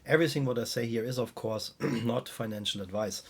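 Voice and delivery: weak voice from a cold. Real, not acted. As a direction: talk through a cold with a weak voice. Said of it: "Sorry for my weak voice, guys. I'm still struggling here with my cold".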